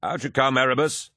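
high ringside call; hearty, high-pitched call. A narrator's reading. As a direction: summon him out of the cage. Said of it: "Torgadon called".

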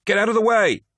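high, loud barking shout. A narrator's reading. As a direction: order them aside from behind. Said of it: "shouted a voice behind him".

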